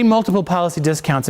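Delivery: "multiple" given the main emphasis; stress on multiple. Shown as a demonstration. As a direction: lean on the word "multiple". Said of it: "put the emphasis on multiple".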